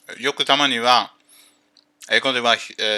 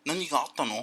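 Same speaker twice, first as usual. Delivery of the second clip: mocking insinuation; 3 semitones higher, 5 dB quieter, faster than usual. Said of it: "意味は".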